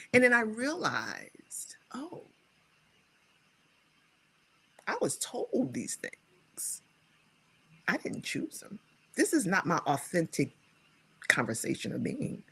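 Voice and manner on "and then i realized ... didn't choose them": whisper. Real, not acted. Realization while telling story.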